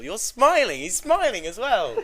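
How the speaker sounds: slow, giggling through the words; barely holding back the laugh; laughing while scolding. Real, not acted.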